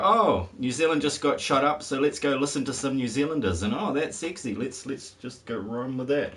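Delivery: lightly hammed-up eager quote, starting loud; mock excitement. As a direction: act out people getting carried away. Imagined people reacting to the vote.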